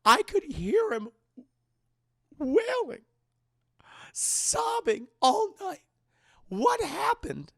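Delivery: high, slow, drawn-out anguish; distraught mother. Retold or imitated. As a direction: build to a loud, wailing demand. Mother's distraught questioning builds.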